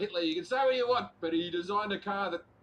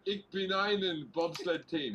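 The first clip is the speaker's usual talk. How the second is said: mock German accent; slower than usual. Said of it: "That was my German".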